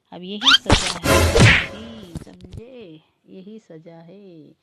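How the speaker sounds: loud stern pronouncement; stern verdict. Acted. Bhabhi declaring punishment to the brothers, loud and stern. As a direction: slam down the punishment loudly.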